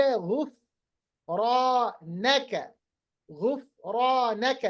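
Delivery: very slow, drawn-out model chant; Quran recitation. Shown as a demonstration. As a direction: show the proper tajweed slowly. Teacher demonstrates recitation.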